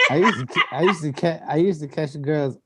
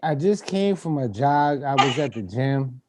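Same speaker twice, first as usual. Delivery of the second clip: out of breath. Retold or imitated. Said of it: "you breathing all hard".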